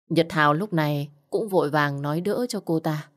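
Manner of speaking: ordinary delivery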